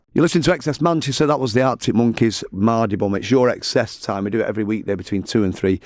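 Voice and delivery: radio presenter. Acted. Host opens the segment to listeners with an upbeat radio presenter read. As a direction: announce the station and show like a DJ.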